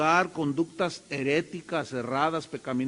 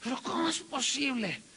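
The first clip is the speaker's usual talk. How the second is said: higher, softer indignant "¿Pero cómo es posible?"; indignant huff; 7 semitones higher, 5 dB quieter than usual. Retold or imitated. Disciples grumbling at the woman, mock indignant. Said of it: "estaban así".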